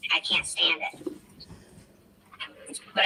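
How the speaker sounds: whispered under his breath. Real, not acted. YouTuber driving past police, whispering to his camera. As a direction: whisper it so the cops won't notice.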